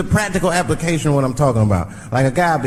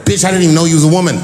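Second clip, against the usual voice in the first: incredulous; 6 dB louder, much faster than usual. Real, not acted. Outburst at accuser.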